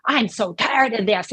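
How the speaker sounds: mild mock exasperation, kept fairly quick; understated acted anger; mad. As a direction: voice a fed-up complaint with restraint. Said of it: "when we're mad".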